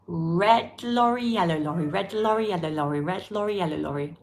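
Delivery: careful teacher demo; tongue twister drill. Shown as a demonstration. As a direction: model the r and l cleanly for learners. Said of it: "Who finds them hard to pronounce".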